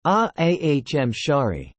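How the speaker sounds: slow, slurred and breathless; slurred airy voice. Acted. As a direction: mumble through a broken mouth. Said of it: "spoke in an airy voice".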